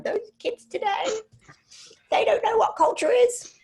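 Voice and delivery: high, hammed-up old folks' voice; grumpy grandparent. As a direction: play the cranky elder tutting at youth. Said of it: "I feel like my grandma and grandpa now going".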